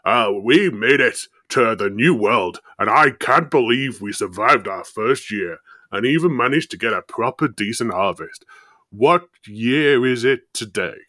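loud, hammed-up Irish settler; badly faked Irish accent, addressing the people; attempted Irish accent. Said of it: "You need to do an Irish accent".

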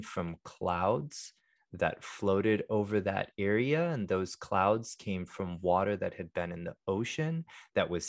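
calm and hushed, like a meditation guide; soft monk voice. Real, not acted. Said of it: "our monk voice, our soft speak voice".

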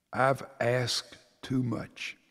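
slow whispered confession, fading away; hushed whisper. Acted. Father kneeling by his sleeping son, remorseful whisper. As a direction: whisper so the sleeping boy won't wake.

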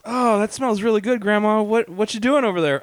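put-on child voice. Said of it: "I walk up and I'm like".

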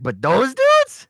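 high, slow dismissive voice; mock LeBron. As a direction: play it off innocently. Mock LeBron dismissing Hong Kong.

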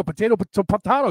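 potato as po-TAY-to, then po-TAH-to; potato both ways. Shown as a demonstration. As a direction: dismissively swap potato from AY to AH. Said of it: "look at those words and go".

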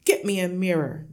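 gruff husband demanding; yelled order. A narrator's reading. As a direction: order it firmly and loudly. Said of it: "the father yelled".

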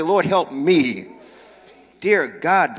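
slow, sincere plea; prayer. Shown as a demonstration. Preacher leading congregation in the plea, slow and sincere.

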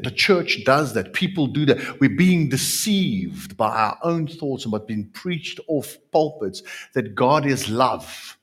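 normal talking voice

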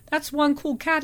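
put-on a lightly drawled American accent; laid-back transatlantic American accent. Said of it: "he said in a sort of transatlantic drawl".

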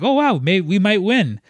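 a sudden excited jump in pitch; light, hopeful mock excitement. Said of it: "so it was just like".

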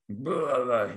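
brief faked vomit sound; a little retching noise; mock retching noise. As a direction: imitate someone throwing up. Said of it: "someone else was like".

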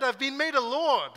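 high, loud, hammed-up posh British voice; pompous British. A pretend-offended Hillary putting on British airs, high and loud. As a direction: puff up like an offended English lord. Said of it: "he could have gotten all British".

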